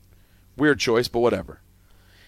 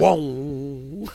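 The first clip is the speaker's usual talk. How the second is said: imitated TV sting; 2 semitones higher than usual. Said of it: "when it would go".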